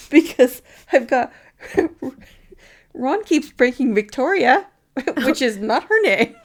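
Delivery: laughing through the line; can't get it out for giggling at her own tipsy notes; laughing while reading. Real, not acted. Rereading her tipsy notes to her co-host, laughing. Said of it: "maybe I'd had some vino".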